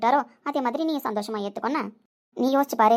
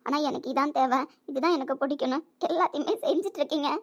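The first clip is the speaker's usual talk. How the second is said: tearful; 4 semitones higher than usual. Acted. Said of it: "என்னடாம்மா அழுதுட்டு இருக்க?".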